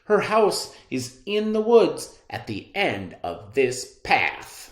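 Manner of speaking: put-on high, loud little girl voice; high girlish voice. Girl answering the wolf, high chirpy child voice. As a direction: sing it out like an eager child. Red Riding Hood's voice.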